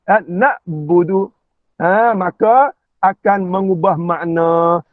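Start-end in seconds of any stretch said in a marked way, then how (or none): 0.2-1.3 slow "nak budu" with a glottal stop after "na"; hamzah for ain. Shown as a demonstration. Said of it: "ain dibaca dengan hamzah". ("nak budu" dengan hamzah)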